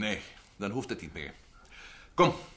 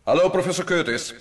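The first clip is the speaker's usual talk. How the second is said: loud, high call, slowing on the last name; 7 semitones higher, 11 dB louder than usual. Acted. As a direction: hail the professor, drawing the name out. Calling Curtis over intercom. (luid en hoog roepend, de naam langzaam)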